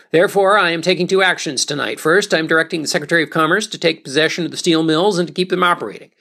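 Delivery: lightly voiced president giving a radio address; Truman speech. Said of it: "I'll just do Truman".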